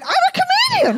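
very high, plummy imitation of the Queen's accent; nervously posh voice. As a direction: nervously mimic royal poshness. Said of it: "I started talking like that as well".

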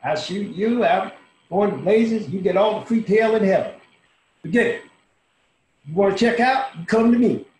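loud, high mock of her scolding; retelling the woman's loud, sharp refusal; quoting her. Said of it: "She said".

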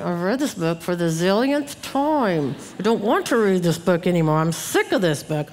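mock fed-up grumble; muttering under breath. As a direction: imitate a weary mother complaining to herself. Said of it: "under my breath".

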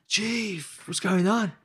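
high, loud cheery chef boss impression. Head chef bursting into the kitchen, loud and high. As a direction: boom it out like a big loud character. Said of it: "He's a loud character".

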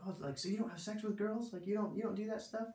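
high put-on voice of prying youths; imitated incredulity. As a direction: act out their disbelief, pitched well up. Youths' prying question, retold.

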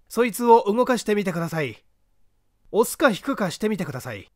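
a lightly voiced, unhurried gentleman sleuth; composed gentleman detective. The detective calmly directing the man up the ladder.

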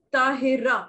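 "ताहिरा" in three beats, ता-हि-रा; syllable by syllable. Shown as a demonstration. Teacher shows three syllables in a name, split apart. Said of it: "three syllables हो गए".

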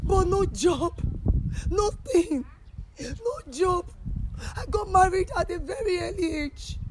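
tearful. Real, not acted. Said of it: "I am not really happy".

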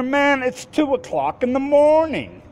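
pitched very high, incredulous retort; can't believe the excuse; retold disbelief.

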